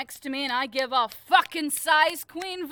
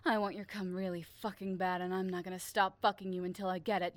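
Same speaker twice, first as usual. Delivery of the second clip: tag; 7 semitones lower, 7 dB quieter, faster than usual. Acted. Ordering partner, taking control.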